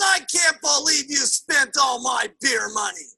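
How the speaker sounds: mock indignant complaint; lightly hammed-up aggrieved scolding; outraged husband. Beer-drinking husband scolds wife over money, outraged.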